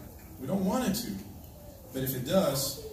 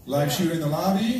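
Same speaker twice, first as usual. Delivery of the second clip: louder call to the room; yelled alert; 5 dB louder than usual. Shown as a demonstration. Pastor calling the drill alarm to the congregation, a loud yell. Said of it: "I'm gonna yell".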